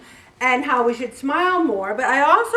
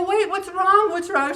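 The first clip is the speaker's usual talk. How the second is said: put-on higher, worried question to a child; concerned asking; 8 semitones higher than usual. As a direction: ask gently but alarmed. Finding a sobbing child.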